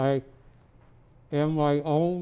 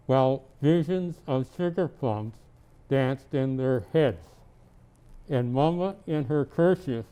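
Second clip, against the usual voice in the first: reading a Christmas poem aloud; gentle storybook reading; story narration. Acted. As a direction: read it like a bedtime tale to a child. Santa reads poem to child.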